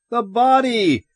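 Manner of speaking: high, urgent cry; shouted. A narrator's reading. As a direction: shout it to make them see. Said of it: "Ed shouted".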